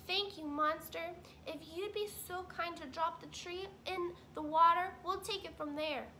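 be politely gracious as the wife beaver; Missus Beaver. Acted.

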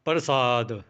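ਪ੍ਰਸਾਦ with a quick r, then long aa; quick half r. Shown as a demonstration. Teacher explaining the half letter, quick r in ਪ੍ਰਸਾਦ. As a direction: pass fast over the r of ਪ੍ਰਸਾਦ, stretch "saad". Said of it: "ਇਹਨੂੰ ਛੇਤੀ ਬੋਲਾਂਗੇ".

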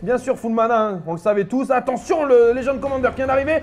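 fast live game commentary; play-by-play. Acted. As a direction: call the action like a caster.

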